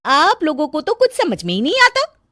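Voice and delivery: high complaining; nagging bahu. Acted. Daughter-in-law complaining, high voice. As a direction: whine it out.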